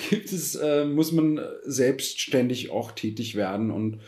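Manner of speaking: hiccuping between words; with hiccups. Real, not acted. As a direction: talk through the hiccups. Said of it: "ich hab irgendwie einen Schluck auf".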